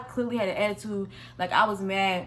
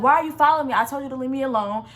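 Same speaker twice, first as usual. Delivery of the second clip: yelling; 2 semitones higher, 4 dB louder, faster than usual. Retold or imitated. Yelling at the man outside the bathroom, loud then easing. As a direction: shout him down, then settle. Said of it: "basically started yelling at him".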